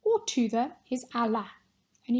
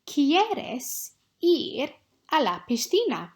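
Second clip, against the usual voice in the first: 1 dictation read; 3 semitones higher, 5 dB louder, slower than usual. Shown as a demonstration. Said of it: "say one of these six sentences".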